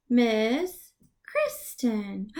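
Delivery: Miss Kristen stretched slowly; teacher clapping a name; slow clapped name. Shown as a demonstration. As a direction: clap it out slowly. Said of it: "clap the syllables in your name".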